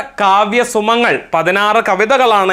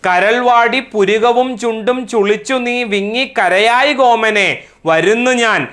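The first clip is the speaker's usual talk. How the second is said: poem recitation; 3 semitones higher than usual. Acted. Teacher reciting a mother's comforting verse to class, poem recitation. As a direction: recite the verse in a measured, singsong cadence.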